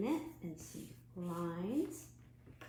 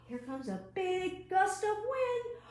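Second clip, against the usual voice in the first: loud, higher, slowed announcement; dramatic excitement; 8 semitones higher, 7 dB louder than usual. Acted. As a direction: build suspense for the gust, louder and slower.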